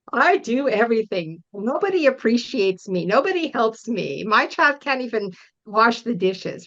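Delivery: mildly aggrieved, self-pitying complaint; a touch of bitter complaint about the dishes; resentful mom. Retold or imitated. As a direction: act out the martyred mom who does it all. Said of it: "like, inside I'm mad".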